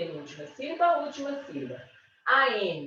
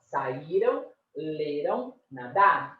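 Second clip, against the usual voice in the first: "saíram, leram, nadaram" lower, stressed before the last syllable; past-tense stress; 5 semitones lower, slower than usual. Shown as a demonstration. Teacher repeating the past forms, penultimate stress. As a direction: let the endings of "saíram, leram, nadaram" drop unstressed. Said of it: "Se é no passado".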